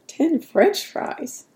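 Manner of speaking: high, slow, incredulous laugh through Ten French fries; laughing disbelief. Retold or imitated. Repeating the nutritionist's portion, laughing in disbelief. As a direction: stretch out Ten French fries in amused shock.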